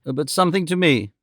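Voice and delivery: "something to me" said with firm weight on "me"; emphatic. A narrator's reading. Mother claiming her own concern, emphatic weight on "me". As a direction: set "me" apart emphatically in "something to me". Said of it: "said Mrs. Nickleby emphatically".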